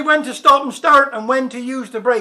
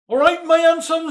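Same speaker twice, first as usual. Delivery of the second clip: put-on higher slurred drunk voice; drunk slurring; 5 semitones higher than usual. A narrator's reading. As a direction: slur it like a cheerful drunk. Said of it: "slurred the stranger".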